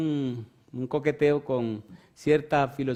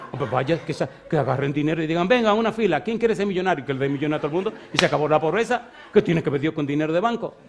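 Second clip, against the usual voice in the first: louder and higher, rising to an outburst; heated argument; 3 semitones higher, 5 dB louder, faster than usual. Retold or imitated. Student retorting to teacher, heated and loud. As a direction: hammer him with mocking questions.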